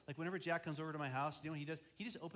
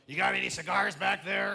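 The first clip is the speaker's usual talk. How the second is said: loud, higher-pitched raspy customer; 5 semitones higher, 16 dB louder than usual. Retold or imitated. Gas station customer asking the clerk for cigars, loud and raspy. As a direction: imitate a penetrating rasp at full volume. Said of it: "That's a raspy voice".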